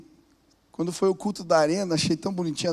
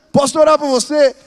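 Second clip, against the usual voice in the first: loud bold offer; 7 semitones higher, 12 dB louder than usual. Retold or imitated.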